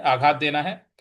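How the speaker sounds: आघात pressed hard; stress on आघात. Shown as a demonstration. Teacher stressing आघात for the student. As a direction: lean on the word आघात. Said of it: "इस पर हमें बल लगाना है".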